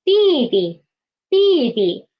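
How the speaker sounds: 弟弟 with falling first 弟, low light second; teacher's model 弟弟, second 弟 short and low. Shown as a demonstration. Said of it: "it will be lower".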